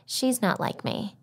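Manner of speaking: usual speaking voice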